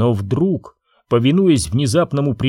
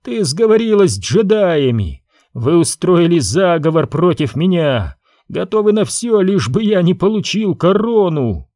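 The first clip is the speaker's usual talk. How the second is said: furious cry; 5 semitones higher than usual. Acted. Prince furious accusation.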